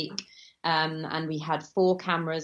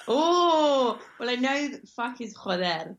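surprised; 8 semitones higher, 3 dB louder, slower than usual. Real, not acted. Caught out by a question.

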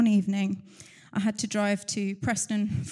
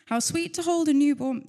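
choked up; 5 semitones higher, 5 dB louder than usual. Real, not acted. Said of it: "I told you I was gonna cry".

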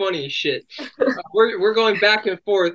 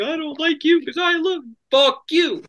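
quoting Angel's joke; 9 semitones higher than usual. Retold or imitated. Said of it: "the thing you said earlier".

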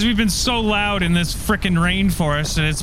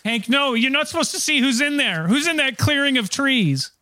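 higher, urgent plea to stop; acted panic, pitched up to hold him back; alarmed protest; 8 semitones higher than usual. Calling friend back from the clearing.

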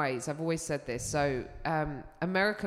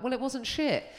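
grudging approval; 7 semitones higher than usual. Retold or imitated. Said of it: "then we're like".

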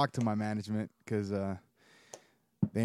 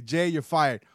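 boss voice; 3 semitones higher, 5 dB louder, slower than usual. Pretend. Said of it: "Jose, as the guy that runs Legacy Management".

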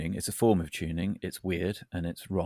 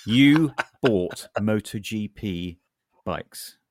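disbelief; 5 dB louder, much slower than usual. Acted. Mock shock at friend's purchase.

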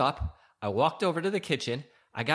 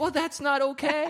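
1 indignant; 12 semitones higher than usual. Real, not acted. Husband protests indignantly.

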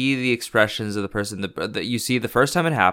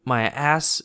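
groggy confusion; 4 semitones higher than usual. Retold or imitated. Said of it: "they wake up and they're like".

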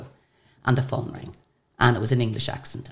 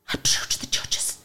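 stunned whisper; 4 dB quieter, slower than usual. Retold or imitated. Stunned reply to daughter.

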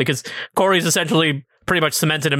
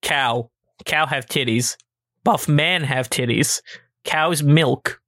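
dumb caveman brain; much slower than usual. Retold or imitated. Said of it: "my brain went".

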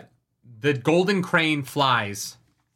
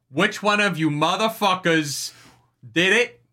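mock angry demand; 5 semitones higher than usual. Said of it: "and he's like".

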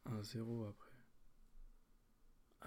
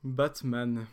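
loud title announcement; announcing; 7 dB louder than usual. Acted. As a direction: call out the name.

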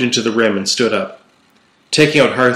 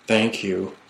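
whispered; 7 dB quieter than usual. A narrator's reading. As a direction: say it softly, just short of a whisper. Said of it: "I whispered".

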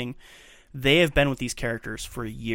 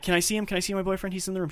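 pleading patient; 7 semitones higher, faster than usual. Retold or imitated.

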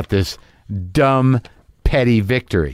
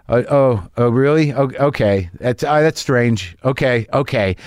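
polite fake calm. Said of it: "there was a subtext there".

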